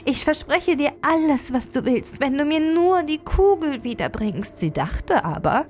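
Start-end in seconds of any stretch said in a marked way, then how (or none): 0.1-4.6 lightly voiced princess, higher pitched; promising princess. Princess promises the frog anything for her ball, high character voice.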